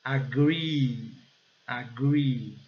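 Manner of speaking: "Agree" with a long, strong final ee; "agree" as "uh-GREEE", falling. Shown as a demonstration. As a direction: stretch the end of "agree". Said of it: "som de I prolongado e bem forte".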